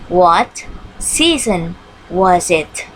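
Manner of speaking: What season was it, again drawn out and slow; slow repeat for the class. Shown as a demonstration. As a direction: repeat it slowly for the pupils. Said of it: "question word what". (diulang pelan)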